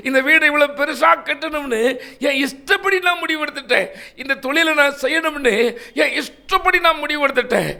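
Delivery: a sinner crying out to Jesus for mercy. Retold or imitated. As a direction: beg Jesus to forgive you, crying out. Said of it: "யோனாவை போல இன்றைக்கு கதறுவீர்களா".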